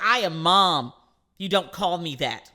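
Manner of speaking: a mother laying down the law; upset mom. Retold or imitated. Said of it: "she got upset".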